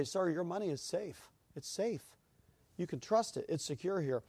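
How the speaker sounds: soothing teller. Retold or imitated. Teller reassuring worried customer.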